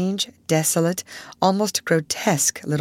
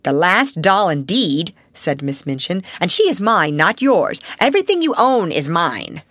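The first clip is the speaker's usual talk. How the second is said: cold triumph; 5 dB louder than usual. Acted. Headmistress claims the doll.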